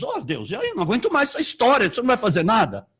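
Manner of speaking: fast, fed-up complaint; Paul at the end of his rope; exasperated Paul. Retold or imitated. Paul complaining to God about the thorn, fast exasperated. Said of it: "Ele ficou lá conversando com Deus".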